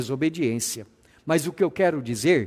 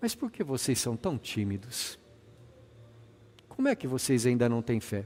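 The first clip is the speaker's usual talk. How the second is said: put-on meek, gentle voice, quieter; 3 semitones lower, 7 dB quieter than usual. Reading Jesus asking the disciples a second way: Jesus speaking meek and gentle. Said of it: "Manso e humilde de coração".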